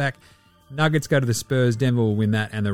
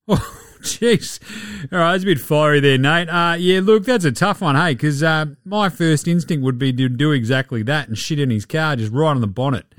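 Joe Ingles impression. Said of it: "I've been Joe Ingles".

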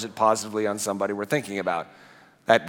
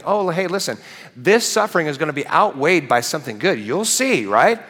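bright, higher mock comforting voice, rising to a louder "right"; chirpy, pat-on-the-back reassurance; mock cheerful reassurance; 5 semitones higher, 4 dB louder than usual. Preacher mocking a cheerful church friend's reassurance. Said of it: "because we're thinking".

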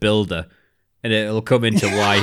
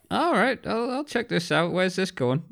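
mock curious; 10 semitones higher, 5 dB quieter than usual. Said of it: "And I went".

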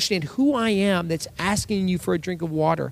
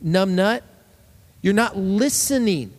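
blunt rebuke; 2 semitones higher than usual. Retold or imitated. Jesus scolding the Pharisees, mock blunt. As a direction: call them out bluntly. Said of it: "He's saying".

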